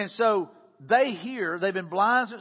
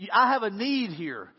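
higher, insistent retold outcry; raised, determined voice; getting louder; 4 semitones higher, 4 dB louder than usual. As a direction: push back, refusing to be silenced. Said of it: "but they got louder".

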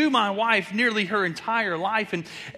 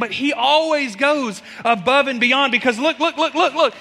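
laughing; 5 semitones higher, 7 dB louder than usual. Real, not acted. Laughing while pointing to family.

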